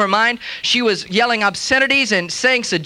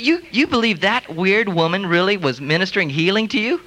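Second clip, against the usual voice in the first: scoffing question; 3 semitones lower than usual. Retold or imitated. Scoffers quoting mockery.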